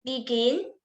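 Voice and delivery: "begin" with weight on the second syllable, rising; stress on last syllable. Shown as a demonstration. Presenter giving an example of last-syllable stress, "begin" stressed on its second syllable. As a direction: lean on the end of "begin". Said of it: "stresses on last syllable".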